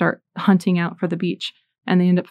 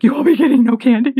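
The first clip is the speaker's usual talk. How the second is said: loud, high, fast telling-off; acted-out exasperated refusal; mock scolding mom; 6 semitones higher, 7 dB louder, faster than usual. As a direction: lay down the law as a worked-up mother. Mother scolding her found child.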